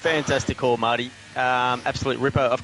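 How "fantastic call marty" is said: laughing. Real, not acted. Laughs at co-host's joke.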